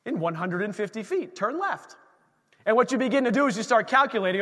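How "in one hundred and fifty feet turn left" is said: softer, even, mock navigation announcement; sat nav voice. Pastor imitates the car's navigation voice, mildly. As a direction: read it like the phone's calm directions. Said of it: "the volume comes down and says".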